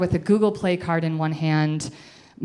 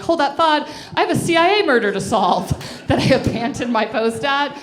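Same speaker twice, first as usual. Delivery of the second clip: higher, louder, self-important mock voice; 8 semitones higher, 4 dB louder than usual. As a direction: play your past self with fake urgency. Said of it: "And I'm like".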